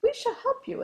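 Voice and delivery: high, loud proclamation; announcing. A narrator's reading. Pig offering the rooster help, announcing it loudly. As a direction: announce it grandly, pitched well up. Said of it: "announced the pig".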